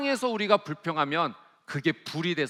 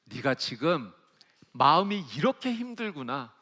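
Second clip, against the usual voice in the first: tender comforting God; 5 semitones lower than usual. Retold or imitated. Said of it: "하나님께서 이거를 기도로 받아주시는 거예요".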